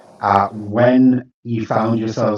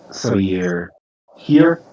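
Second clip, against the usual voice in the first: usual speaking voice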